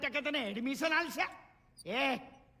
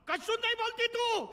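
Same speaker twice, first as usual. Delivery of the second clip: sarcastic laugh; 9 semitones higher than usual. Acted. Father scolding wife sarcastically.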